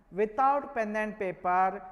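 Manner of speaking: "Without pen and paper" slow and deliberate; emphatic stress. Real, not acted. Teacher setting the class a challenge, slow emphatic stress. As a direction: spell out "Without pen and paper" slowly, phrase by phrase. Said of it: "I am stressing the word".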